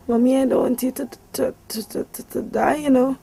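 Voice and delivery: voicing her son as he cries, a mild teary plea; son crying. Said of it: "And he started to cry".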